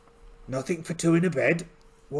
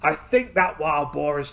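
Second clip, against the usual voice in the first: hurt pirate captain; 3 semitones higher, 7 dB louder than usual. Acted. Gored captain answering his lad, loud pained voice. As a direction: answer loudly through mock pain.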